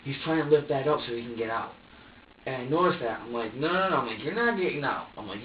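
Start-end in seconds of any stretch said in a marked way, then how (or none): 3.5-4.0 louder, higher retold scolding; insistent, imitated telling-off; firm refusal. 4.2-5.1 higher-pitched retold scolding; insistent, imitated telling-off; firm refusal.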